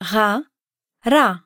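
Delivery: Ga throaty at the back, ra rolled at the front; throaty versus rolled. Shown as a demonstration. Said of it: "so we can compare".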